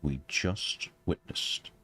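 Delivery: a hint of an awed scholar, slowing; slow understated amazement; lightly voiced scholar. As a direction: marvel at it like a learned gentleman. Voices scholarly character in awe.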